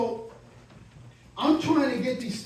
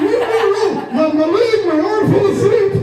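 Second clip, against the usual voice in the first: higher and louder, pleading; exasperated insisting; 9 semitones higher, 9 dB louder than usual. Retold or imitated. Comic insisting to the agent that his arm fell asleep, loud and exasperated.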